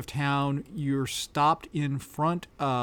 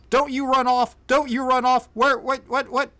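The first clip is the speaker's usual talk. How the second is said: raised, higher-pitched officer's holler; 10 semitones higher, 8 dB louder than usual. Acted. Officer yelling after a runaway child, hollering. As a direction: holler it out, loud and high. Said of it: "he hollers around".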